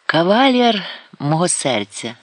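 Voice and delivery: "Кавалєр" with the stress on the second а, slow and high. Acted. Karapet naming her suitor, coy slow stress on "Кавалєр". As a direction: lean coyly on the second а of "Кавалєр". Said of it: "Карапет зробила наголос на друге «а»".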